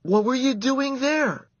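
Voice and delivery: high, loud surprised question. A narrator's reading. Surprised boy asking the mouse, high loud question. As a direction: jump up in astonishment.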